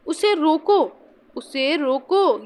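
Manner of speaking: slow "उसे रोको", cut off before any मत; pause after रोको. Shown as a demonstration. Teacher showing students the intended meaning, pause after रोको. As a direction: draw out रोको and stop there, as at a comma. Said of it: "यहाँ पर आपने comma लगाया".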